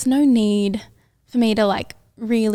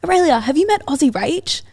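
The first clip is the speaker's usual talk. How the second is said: eager friends; 6 semitones higher than usual. Retold or imitated. Friends introducing her, voiced.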